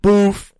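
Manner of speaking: a loud boof blast sound; silly boof explosion; mock blast noise. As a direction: punch out a cartoon blast. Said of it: "And he's like".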